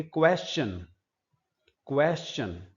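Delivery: क्वेश्चन said as kwes-chan; with w sound. Shown as a demonstration. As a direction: stress the kw in क्वेश्चन. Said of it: "व कहीं नजर नहीं आ रहा". (क्वेश्चन, व की आवाज़ के साथ)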